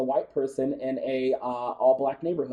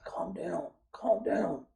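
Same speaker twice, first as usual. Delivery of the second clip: hushing him; 4 semitones higher, 8 dB quieter than usual. Retold or imitated. Soothing upset cousin.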